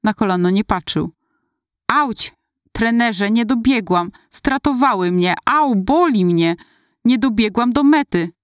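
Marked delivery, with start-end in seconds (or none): 1.9-8.3 a mild, higher, teary lament to the coach; half-sobbed complaint, voice lifted; desperate sobbing. Retold or imitated. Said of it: "szlochałam rozpaczliwie".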